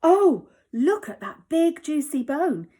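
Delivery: loud, high, drawn-out dog voice; drawling greedy dog. Acted. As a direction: drool over the bone out loud. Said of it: "he drawled".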